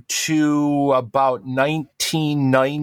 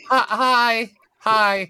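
retold awkward greeting; 7 semitones higher, much slower than usual. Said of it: "And I'm like".

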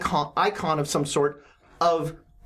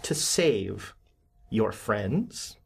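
low villain voice; 3 semitones lower than usual. Acted. GM voices ruler character.

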